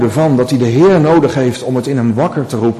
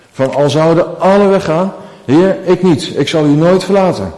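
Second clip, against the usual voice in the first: raised, louder boastful vow; bold Peter; 5 semitones higher, 4 dB louder than usual. Acted. Petrus belooft Jezus vol bravoure: louder, confident vow. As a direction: proclaim loyalty with confident swagger.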